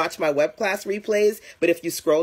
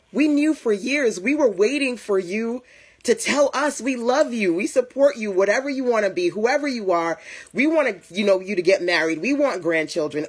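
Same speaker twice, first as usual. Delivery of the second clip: loving parents; 4 semitones higher than usual. Retold or imitated. Parents answering daughter's coming out, tender and high. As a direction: reassure her like relieved parents.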